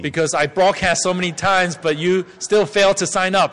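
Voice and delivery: a touch of an exasperated telling-off; mock stern scolding. Shown as a demonstration. Interpreter voicing a scolding over missed sign-up, mock stern. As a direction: scold them for ignoring the announcements. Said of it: "if I change my tone right now".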